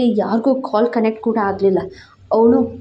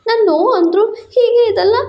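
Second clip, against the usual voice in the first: much higher, louder pained woman's voice; hurt girlfriend; 11 semitones higher, 4 dB louder than usual. A narrator's reading. Girlfriend accusing him after the night, high and hurt. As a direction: cry out her hurt in her voice. She confronts him crying.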